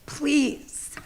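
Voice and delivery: pleading while fighting back tears; crying. Real, not acted. Teacher apologizing to the board, crying softly. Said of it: "I'm sorry that I'm crying".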